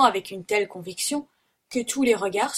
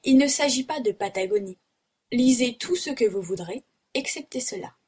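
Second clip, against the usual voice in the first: higher, animated protest; emphatic exclamation; 3 semitones higher than usual. Acted. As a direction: insist on it excitedly. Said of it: "s'écria Paganel".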